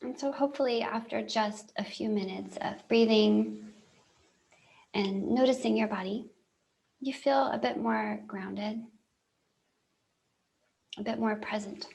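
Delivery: calm guide leaving very long silences; guided meditation. Real, not acted. Helping listeners feel grounded after breathing, calm guided meditation. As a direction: ease them into longer breaths, unhurried.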